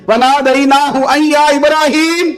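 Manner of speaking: high, slow, chanted recitation; Quran recitation. Acted. Preacher reciting the verse to the crowd, high and chanted. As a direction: lift the verse high and stretch it.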